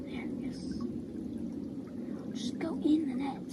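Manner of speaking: hushed urging to the fish; whispering. Real, not acted. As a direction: whisper it so the fish stay calm. Coaxing fish into net.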